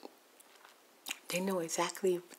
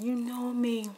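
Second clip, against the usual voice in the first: high, loud imitation of distressed pleading; imitated woman pleading her case in distress; tearful retelling; 4 semitones higher, 3 dB louder than usual. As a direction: act out her upset plea, voice raised. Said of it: "she started crying. She was really crying".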